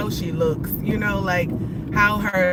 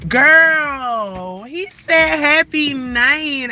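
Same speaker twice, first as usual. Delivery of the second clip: excited; 5 semitones higher, 6 dB louder, much slower than usual. Real, not acted. Excited retelling to viewers.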